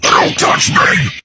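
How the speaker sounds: "Don't touch me!" yelled loud and slow; shouted warning. Acted. Bug losing patience with the cat, slow loud shout. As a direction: snap back with a furious repeat. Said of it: "I said".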